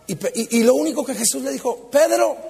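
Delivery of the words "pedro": high call of a name. Acted. Jesus calls to Peter, calling out.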